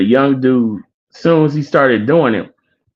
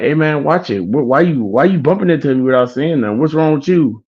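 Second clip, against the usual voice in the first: slightly higher, mock-irritated complaint; retold annoyed confrontation; 5 semitones higher than usual. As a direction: act out taking offence at a bump. Retold man annoyed at being bumped.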